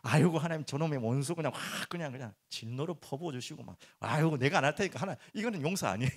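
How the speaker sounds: loud, pleading mock prayer for revenge; mock vengeful prayer. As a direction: ham up a prayer begging God to smite an enemy. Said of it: "저 말씀을 이용하시지 마시고".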